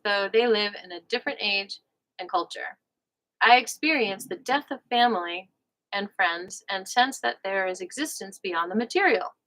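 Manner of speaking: measured audiobook-style reading; book read-aloud. Real, not acted. Host reads a relationship book to listeners, measured read-aloud. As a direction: read it out in careful, separate phrases.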